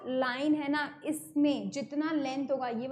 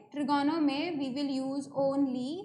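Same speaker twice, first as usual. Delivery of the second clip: slow emphasis; 3 dB quieter, much slower than usual. Shown as a demonstration. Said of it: "teacher stresses key term".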